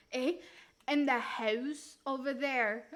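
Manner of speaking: Canadian "eh" and rounded "house"; Canadian accent. Acted. Streamer parodying Canadians, mock Canadian accent. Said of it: "I know how to sound Canadian".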